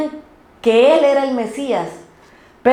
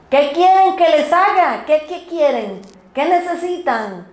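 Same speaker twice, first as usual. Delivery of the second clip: higher-pitched mock calling out; mild imitated yell; 4 semitones higher than usual. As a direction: call the questions out, without real shouting. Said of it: "y les grita".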